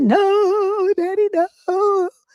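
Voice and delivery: very high, choked-up tearful crying, "no" drawn out. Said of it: "So I was trying to choke it out".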